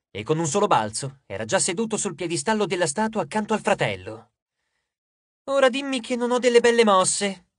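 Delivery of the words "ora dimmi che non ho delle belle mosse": higher, showy bragging; pleased-with-yourself boast; boastful. A narrator's reading. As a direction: brag to a rival with a cocky lift. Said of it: "si vantò".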